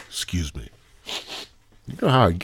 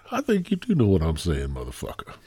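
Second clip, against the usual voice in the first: low answer; 3 semitones lower, 4 dB quieter, faster than usual. Pretend. Host answering his own question, dropping low. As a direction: voice sinking and softening to the end.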